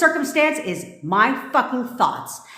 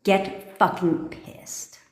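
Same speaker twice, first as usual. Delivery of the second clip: slow, voiceless, softer egging on; hushed slow urging; 4 dB quieter, much slower than usual. Real, not acted. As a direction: drag it out under the breath. Urging listeners to get angry.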